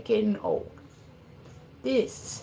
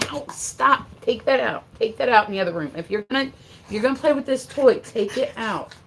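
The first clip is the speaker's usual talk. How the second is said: scolding; 4 semitones higher, 5 dB louder than usual. Real, not acted. Scolding the dog after being hit.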